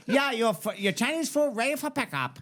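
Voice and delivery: put-on high caricatured Asian accent; high takeout caller in a mock Asian accent. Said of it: "you can't do an Asian accent".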